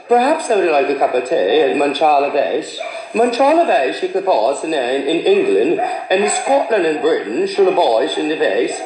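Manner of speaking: hammed-up attempt at a British accent. Visitor showing off tea-time English, exaggerated British accent. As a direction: lay the British accent on thicker. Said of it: "Or should I go more dipper?".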